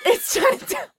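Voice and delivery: misquote it playfully, voice jumping up; botched movie quote. Retold or imitated. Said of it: "trying to quote the end of Chinatown".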